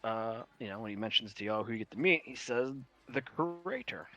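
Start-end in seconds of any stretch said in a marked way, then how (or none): 3.1-4.1 New York accent. Shown as a demonstration. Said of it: "I won't be able to say the word right".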